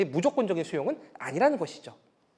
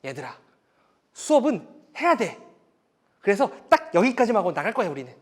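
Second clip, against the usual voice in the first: firm teacher; 3 semitones higher, 4 dB louder than usual. Shown as a demonstration. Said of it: "이렇게 했어요".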